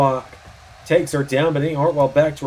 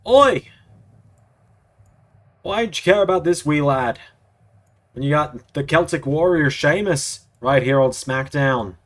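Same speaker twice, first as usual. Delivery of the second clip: put-on Irish accent as Sheamus. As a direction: play Sheamus with a hammed-up Irish brogue. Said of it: "can't do a freaking Irish accent".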